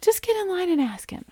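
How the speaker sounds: hushed whisper pushing her on; whispered urging. Retold or imitated. Friend whispering to her to get in line. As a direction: whisper it like a nudge. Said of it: "She's like".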